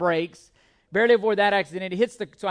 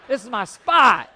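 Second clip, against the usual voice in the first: defiant shout again; 3 semitones higher, 9 dB louder than usual. Retold or imitated. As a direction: echo the claim, still loud. Repeated defiant line.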